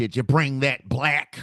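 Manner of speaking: put-on grandma voice. Retelling what grandma says at dinner: imitating grandma. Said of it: "she's like".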